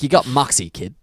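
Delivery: punchy, light character impression; Jewish character voice. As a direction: put on a hint of a Jewish old-timer. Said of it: "it sounds like a Jewish, like".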